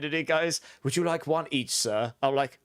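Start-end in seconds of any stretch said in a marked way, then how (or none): 0.8-2.1 retold posh service voice; posh waiter. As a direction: lightly put on a posh waiter. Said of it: "They were so posh".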